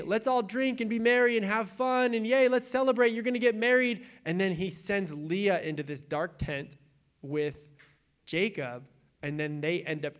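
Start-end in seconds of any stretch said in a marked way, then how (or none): 0.0-4.0 higher, louder festive cheer; hammed-up party host; mock celebration. Laban feigns festive cheer.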